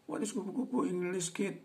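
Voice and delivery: high, bright quizzing voice; model question. Shown as a demonstration. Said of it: "Boleh begitu". (nada tinggi bertanya pada anak)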